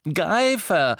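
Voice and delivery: high, loud single word; agitated explanation. A narrator's reading. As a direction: blurt the name out. Ron explains agitatedly to Harry.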